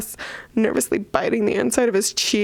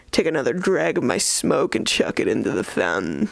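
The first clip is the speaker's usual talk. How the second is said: brooding villain; 5 semitones lower than usual. Acted. Reads the male villain's point of view.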